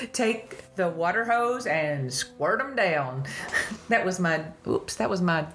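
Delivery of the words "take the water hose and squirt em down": slow, drawled Southern country twang on "water hose" and "squirt 'em down"; easygoing country accent, slowed down. Real, not acted. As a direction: let a rural Southern accent slip out, unplanned. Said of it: "my country accent coming out just then".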